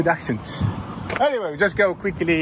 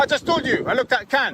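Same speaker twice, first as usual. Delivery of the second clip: higher, mocking Scottish accent; put-on Scottish accent; 6 semitones higher than usual. Auditor jeering at officers to a passerby, in a put-on Scottish accent. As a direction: taunt the police in a hammed-up Scottish accent. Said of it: "my Scottish accent was good or not".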